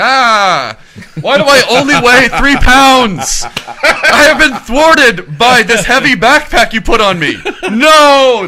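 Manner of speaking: high, loud, slow whiny doll; Chucky doll voice. Pretend. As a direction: wail it like a tiny trapped doll.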